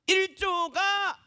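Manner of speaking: high, long-drawn game announcement; announcing. Shown as a demonstration. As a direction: stretch it out high to open the round. Demonstrating the game's announcing phrase. (높고 길게 늘여 발표하듯)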